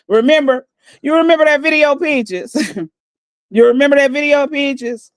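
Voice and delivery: mocking taunt. Real, not acted. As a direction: needle Peaches in a high mocking lilt. Taunting Peaches on live stream.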